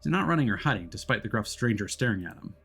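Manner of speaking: measured, even storyteller read over music; story narration. A narrator's reading. Narrator setting the scene for the audience, steady storytelling voice. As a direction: set the scene like an audio-drama narrator.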